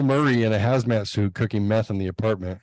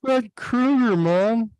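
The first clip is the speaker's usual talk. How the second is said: put-on excited kid; 12 semitones higher, much slower than usual.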